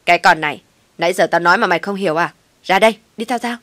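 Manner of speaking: loud, rushed angry yelling; furious outburst. A narrator's reading. Mother-in-law exploding at the narrator, loud furious yelling. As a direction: explode at her, loud and fast.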